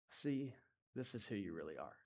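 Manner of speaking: soft, close whisper of shame. Acted. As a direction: lean in and whisper it like an accusing inner voice. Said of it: "It whispers personally".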